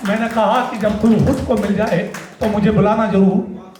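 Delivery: measured spoken-word verse; stage poet's cadence; poetry recitation. Acted. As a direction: deliver each couplet to the audience. Recites his poem Makaan.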